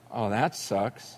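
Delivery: low, slow, deflated aside; dismayed reaction. Retold or imitated. Preacher recalling his reaction to the story, low dismay. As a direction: let it drop softly and slowly.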